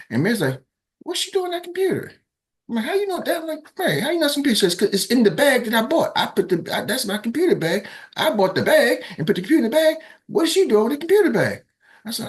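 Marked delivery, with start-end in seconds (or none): 1.0-4.5 much higher, incredulous voice; suspicious Mary. Retold or imitated. Mary suspicious, him questioning. 4.8-11.6 much higher and louder, outraged; indignant Mary. Retold or imitated. Mary indignant about her bag.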